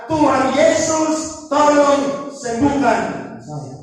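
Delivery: slow, drawn-out mock cry for help; retold plea for healing. Preacher voicing hospital patients crying to Jesus, slow imitated plea. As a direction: imitate a sick person's plea, stretching the words. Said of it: "Yang mereka teriak adalah".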